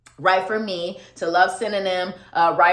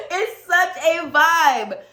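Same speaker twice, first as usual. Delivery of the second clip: laughing; 9 semitones higher, 4 dB louder, slower than usual. Real, not acted. Laughing after singing.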